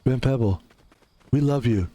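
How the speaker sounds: low mock fan voice; lightly voiced low-pitched fan; adoring fan. Voicing adoring fans interrupting him.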